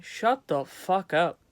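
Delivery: slow, emphatic exasperated order. Real, not acted. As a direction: spell it out slowly, fed up. Ranting at Bernie.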